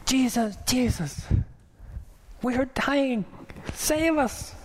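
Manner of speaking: high, loud hammed-up cry for help; panicked plea. Disciples wake Jesus in the storm: high, loud panicked plea. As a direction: cry out to the sleeping teacher in mock terror. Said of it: "they're in a panic".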